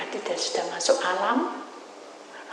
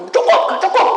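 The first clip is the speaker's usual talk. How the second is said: much higher, loud chant; spirits shouting; 12 semitones higher, 12 dB louder than usual. Retold or imitated. Spirits shout the coffin is too small, high and loud. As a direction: cry out it doesn't fit.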